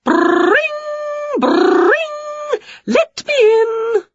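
high ringing door yell, slow demand; talking door bell. Acted. The door yell demands to be let in, high ringing. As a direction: ring out then demand entry.

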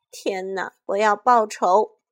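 loud shout of revenge; fierce battle cry; furious shout. Acted. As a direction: hurl the vow out. Vows revenge after parents frozen.

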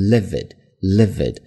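livid said slowly with a short middle vowel; teacher modelling livid slowly; careful pronunciation. Shown as a demonstration. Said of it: "中间是一个短音".

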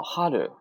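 春 said with the pitch dropping after the first sound; falling pitch accent. Shown as a demonstration. Teacher models the Japanese word, falling tone on 春. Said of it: "降调了啊".

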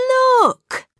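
high, loud, triumphant "Look!"; spring the surprise with glee; gleeful. A narrator's reading. Kipper to Dad, springing the trick, gleeful.

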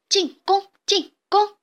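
high, loud chanted war cry; battle cry. A narrator's reading. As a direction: echo the chief like a gang. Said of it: "其他黄鼠狼也跟着齐声呐喊".

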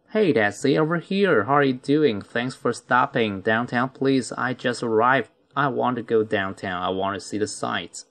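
brisker run through the dialogue. Shown as a demonstration. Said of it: "如果快速一点读是". (快速一点读)

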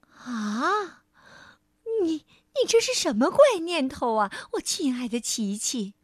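mother's astonished question; a mild touch of amazement, gently asking; lightly voiced surprised mother. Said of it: "妈妈非常惊讶地说".

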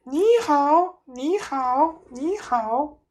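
high, squawking parrot greeting. A narrator's reading. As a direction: chirp it like a bird. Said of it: "那声音又来了".

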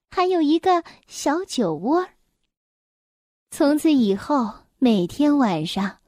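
measured bedtime-story reading; children's story narration. Acted. Mother reads an elf tale to a little one, storytelling. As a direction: read it gently to a small listener.

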